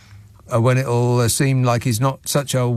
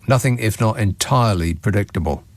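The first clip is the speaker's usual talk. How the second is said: deadpan sarcasm; 4 semitones lower than usual. Real, not acted. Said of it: "deadpan verdict".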